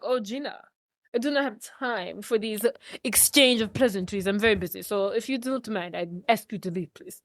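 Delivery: imitating a soft-spoken Austrian accent. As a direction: put on a quiet, lightly done Austrian accent. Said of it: "he turns off that Austrian accent".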